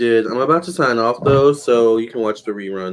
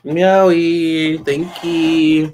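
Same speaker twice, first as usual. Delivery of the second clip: high cooing pet voice; baby talk to pet; 5 semitones higher, much slower than usual. Acted. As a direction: thank the cat in a sweet squeaky coo. Cooing to cat.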